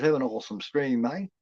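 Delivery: put-on light Aussie accent on a friendly sign-off; imitated Australian accent. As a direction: lightly mimic an Australian mate. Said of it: "I love that accent".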